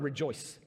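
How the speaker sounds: rejoice set apart, said low and soft; emphasis on rejoice. Shown as a demonstration. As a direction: lean on the word rejoice, then let it drop. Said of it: "underline that word".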